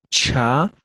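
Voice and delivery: "cha" with a blown puff after CH; aspirated CH. Shown as a demonstration. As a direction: blow air through the CH of "cha". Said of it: "La aspirada, soplando".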